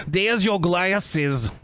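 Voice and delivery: slow, eerie medium-style drawl; lightly voiced medium; mock psychic drawl. Cohost riffing on the girlfriend's odd line, slow drawl. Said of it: "why did you say it like that".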